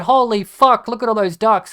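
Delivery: mock a child shouting in delight at the ducks; excited kid. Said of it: "and they said".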